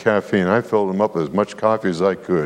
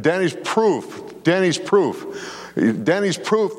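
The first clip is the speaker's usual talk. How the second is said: slow emphasis; 9 semitones higher, much slower than usual. Real, not acted. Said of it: "preacher slows to emphasize".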